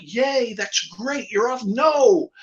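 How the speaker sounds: high puppet voice, a little cheery; tennis ball puppet. Acted. Puppet voice retold.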